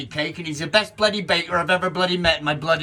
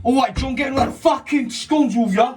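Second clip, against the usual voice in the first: mock shout; 9 semitones higher than usual. Shouting at John while rushing the scones, playful mock yell. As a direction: bark it out like a stressed kitchen cook. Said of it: "Stop shouting!".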